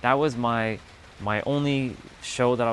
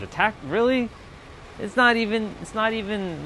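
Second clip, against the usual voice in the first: much higher, sneering incredulity; scornful disbelief; 10 semitones higher than usual. Retold or imitated. Streamer imitating his past self trashing Attack on Titan, high sneering disbelief. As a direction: squeak out the disbelief like it's absurd.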